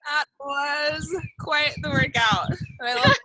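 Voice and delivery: high, loud and delighted; excited. Real, not acted. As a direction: gush over the workout. Host after workout game.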